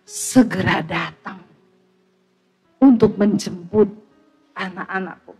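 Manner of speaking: voice of the Lord. Retold or imitated. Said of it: "Tuhan bilang".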